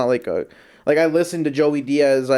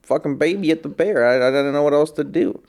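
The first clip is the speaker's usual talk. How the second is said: badly faked Southern storyteller; lightly imitated Southern comedian; poor Southern accent. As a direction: have another go at a mock Southern accent. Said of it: "I can't really do the Southern accent".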